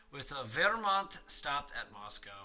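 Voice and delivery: measured documentary narrator read; dramatic history narration over music; mission briefing read. Acted. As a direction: read it like a war documentary intro. Reads the mission briefing aloud.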